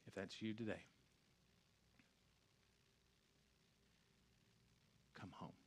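low, very soft altar call; near-whispered invitation, low and solemn; hushed preaching. Real, not acted. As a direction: speak tenderly with long, weighty pauses. Hushed altar call after climax.

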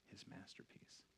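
hushed, breathy whisper of his masterpiece; a reverent whisper. Real, not acted. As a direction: drop to a whisper to land the point. Pastor stresses masterpiece in hush.

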